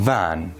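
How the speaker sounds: "ون" with a buzzing, voiced v at the start. Shown as a demonstration. Teacher has students feel the difference, voiced v in "ون". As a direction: say "ون" with the first sound voiced, as v.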